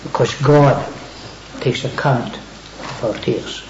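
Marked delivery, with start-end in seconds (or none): 1.6-3.6 slow whisper. Acted. Preacher whispering to the congregation, slow. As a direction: whisper slowly, voice dropped right down.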